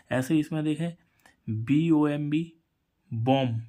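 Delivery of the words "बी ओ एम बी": slow spelling. Shown as a demonstration. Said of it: "spelling out a word".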